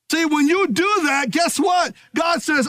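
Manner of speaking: rising preacher shout; preaching shout. Real, not acted. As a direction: lift it up to the back row.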